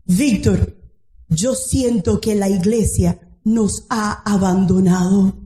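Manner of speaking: low, slow mournful quote; slow, heavy-hearted lament, only lightly acted; retold tearful words. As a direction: imitate a tearful man, understated.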